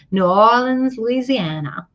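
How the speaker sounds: "New Orleans, Louisiana" in a light, botched Southern accent; lightly imitated Southern accent, running "Louisiana" together; attempted Southern accent. Shown as a demonstration. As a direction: have a half-hearted go at a Southern accent. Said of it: "I can't even do a Southern accent".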